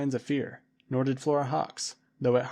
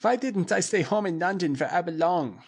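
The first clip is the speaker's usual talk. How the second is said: higher, louder despairing wail; 5 semitones higher, 4 dB louder than usual. A narrator's reading. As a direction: wail homesick and scared. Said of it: "he wailed".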